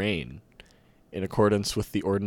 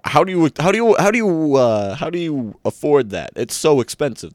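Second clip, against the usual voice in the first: high, loud disbelief; shocked at the cost; incredulous; 7 semitones higher, 7 dB louder than usual. Acted. Vassal shocked at price.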